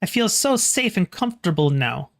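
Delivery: put-on high, grateful little boy; little boy's voice. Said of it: "you hear a little boy's voice say".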